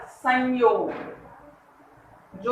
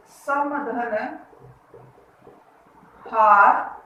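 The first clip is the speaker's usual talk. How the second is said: slow dictation; 2 semitones lower, much slower than usual. Shown as a demonstration. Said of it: "ये शब्द हैं".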